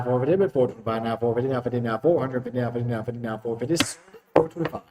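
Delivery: rapid rolling bid chant; auctioneer. Acted. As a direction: rattle off the bids like an auctioneer.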